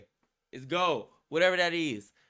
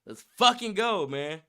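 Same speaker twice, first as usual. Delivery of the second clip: excited. Real, not acted. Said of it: "Get fucking excited".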